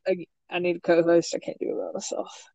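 ordinary talk

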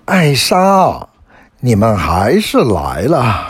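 high-pitched, pleased answering call; calling back loudly. A narrator's reading. Elin answers the visitors from the castle, calling back gladly. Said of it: "大声的回答说".

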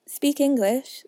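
loud, high retort; impatient eaglet. A narrator's reading. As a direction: cut the dodo short.

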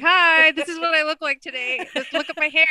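mock perky greeting. Retells greeting him from under his head.

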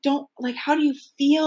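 lightly put-on British accent, high; a hint of a British stylist voice; terrible British accent. Stylist asking a client how they feel, British accent. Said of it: "sorry for the terrible British accent".

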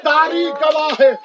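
declaimed Urdu majlis oratory; majlis lament preaching. Real, not acted. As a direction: preach the martyrs' grief to a crowd.

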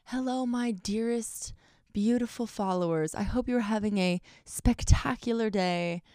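lightly put-on old British lady. Imitating her teenage self greeting followers, mock-proper old British lady. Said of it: "I was talking like an old British lady".

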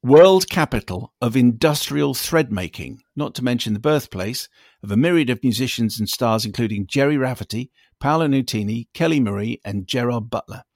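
a listener email read out on air, measured and deliberate; email read aloud. Acted. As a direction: read the listener's letter out carefully.

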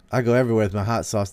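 fast, lightly voiced mock Hillary; quick mocking pander line. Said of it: "hot sauce Hillary".

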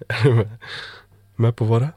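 loud mock rapper yell, pitch up; mock shout. Vlogger mimics a rapper yelling: loud mock shout.

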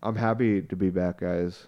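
talking while tipsy. Real, not acted. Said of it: "I'm really drunk right now".

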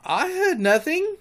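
lightly voiced pirate Starkey. A narrator's reading. Starkey answers Hook.

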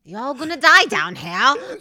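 loud, slow fake British gone Southern; hammed-up accent sliding into US South; accidental Southern accent. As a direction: stretch it into a botched Southern twang. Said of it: "It sounds like you're from the South now".

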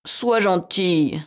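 slow, coaxing plea; pleading. Acted. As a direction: beg her sweetly, drawn out. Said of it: "supplia-t-il".

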